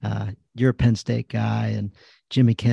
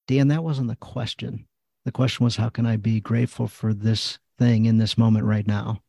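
a light touch of a patient coach correcting him; gently steer him back to the question like a coach. Retold or imitated. Inner voice coaching him toward gratitude, lightly coachlike. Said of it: "in a kind of coaching way".

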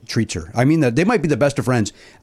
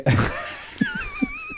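tearful high wail; 8 dB quieter than usual. Real, not acted. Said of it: "am I seeing things through my tears?".

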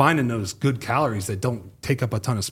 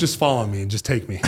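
laughing resignation. Retold or imitated. Exhausted, ready to give up.

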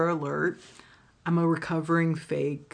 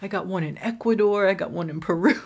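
much higher, louder, breezy imitation; mock proud guy; 4 semitones higher, 4 dB louder, faster than usual. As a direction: brag casually about kids abroad. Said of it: "And he's like".

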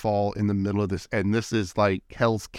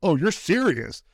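higher, slow, drawn-out acted realization; incredulous question, pitched up; retold disbelief; 7 semitones higher than usual. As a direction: act out the slow dawning surprise. Acts out realizing waiter means it.

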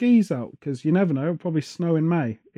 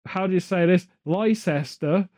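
mock American tourist; slower than usual. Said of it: "you sound more like a farmer from Bristol".

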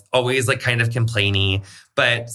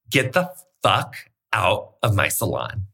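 slow, deliberate retold order; retold stern ultimatum; 3 semitones lower, slower than usual. Business partner ordering a client out of the salon, slow and stern. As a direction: spell it out slowly, word by word.

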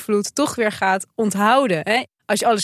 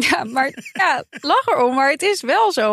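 trying not to laugh; 6 semitones higher than usual. Real, not acted. Laughing right after funny quote.

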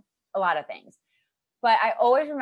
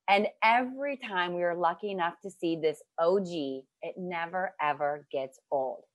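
nervously reading love poem. Acted. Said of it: "I'm gonna read you my poem".

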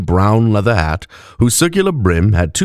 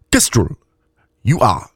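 put-on slightly higher accented voice; Mauxi woman's accent; 3 semitones higher than usual. A narrator's reading. Woman confirming the elf is drunk, Mauxi accent. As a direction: confirm with deep vowels, sharp consonants. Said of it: "her accent marked by deep vowels and sharp consonants".

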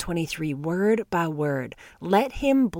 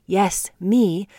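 whispered aside. Acted. Personal emphasis on herself.

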